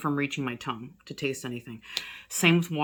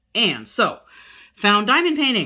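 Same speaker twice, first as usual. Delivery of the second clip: full-on loud yelling, rising and swooping; 6 semitones higher, 8 dB louder than usual. Recounting their illness, the speaker notes they are yelling: yelling. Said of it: "I'm yelling now. I'm sorry".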